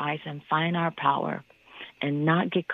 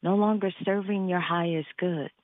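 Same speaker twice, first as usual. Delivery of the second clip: guided meditation. Acted. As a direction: guide them gently through the breath. Leads a meditation.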